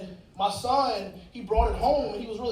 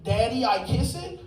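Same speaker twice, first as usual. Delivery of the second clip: slow, lightly voiced little kid; a touch of a sweet small child asking; innocent little kid. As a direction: innocent toddler voice, only lightly done. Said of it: "in the most innocent little kid voice".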